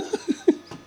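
short voiceless laugh; breathy chuckle. Real, not acted. Laughing to himself.

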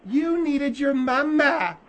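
slow, drawn-out mocking jab; mocking taunt. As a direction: taunt him, stretching out each word. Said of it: "you're mocking me".

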